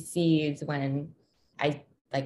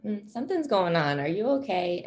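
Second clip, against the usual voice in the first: higher-pitched, questioning check-in; imitated child checking in; 5 semitones higher than usual. Son practicing noticing a parent's mood, imitated higher-pitched check-in. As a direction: voice a kid asking after a parent. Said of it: "practice that with us of, like".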